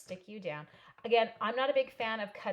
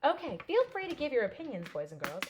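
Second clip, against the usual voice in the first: teacher voice to class; 3 semitones higher, 4 dB louder than usual. Shown as a demonstration. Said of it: "can I say that in class".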